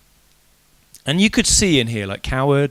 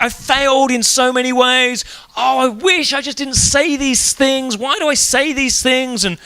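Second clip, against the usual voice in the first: imitating a regretful Peter; 6 semitones higher than usual. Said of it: "That's how I would feel".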